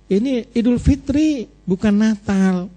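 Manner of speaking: high, drawn-out retold correction; lightly chide, stretching the words out; mock scolding. Husband correcting his wife about the holiday, mild mock scolding. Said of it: "Saya tegur dia".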